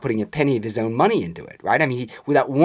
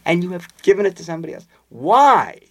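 quick, higher hurt demand; retold upset actress; 8 semitones higher, 5 dB louder than usual. Anne Todd demanding why, quick higher mock-anger. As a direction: press him, mildly acted anger.

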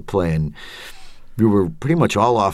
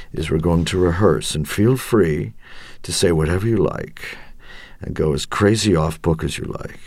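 imitating Mike Nichols. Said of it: "Mike talked like this".

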